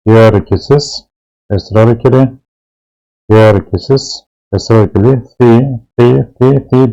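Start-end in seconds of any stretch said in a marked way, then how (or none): 5.4-6.9 "fi" said with a long i, repeated evenly; long i reading. Shown as a demonstration. Teacher reading out the lengthening letter, "fi" with long i. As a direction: hold the i in each "fi". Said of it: "diye okunuyor".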